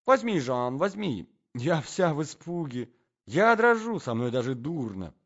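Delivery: high, hammed-up plea; theatrical fright. Lady begs her husband for a carriage, theatrically frightened. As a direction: play up the fright, peaking high and loud.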